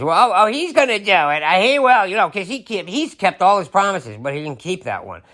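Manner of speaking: high flustered mock defense; mock supporter excuse. Mocking a supporter defending Trump's promises. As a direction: stammer out the excuse. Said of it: "He, he promised".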